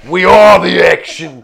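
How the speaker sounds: loud boastful declaration; proud chief voice. Acted. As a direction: announce it like a proud war chief.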